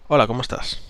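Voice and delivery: ESTÁS settling downward in an everyday register; neutral or falling tone. Shown as a demonstration. Coach showing the better greeting, ESTÁS falling. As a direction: let ESTÁS fall, with no questioning lift. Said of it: "tono neutral o decreciente".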